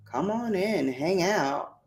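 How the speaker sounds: softly whispered invite. Real, not acted. Inviting viewers in with a quiet whisper. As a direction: breathe it out as a whisper.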